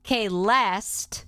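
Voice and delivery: "Kay Lest" ending on a crisp T; final T sounded. Shown as a demonstration. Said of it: "not to be confused with".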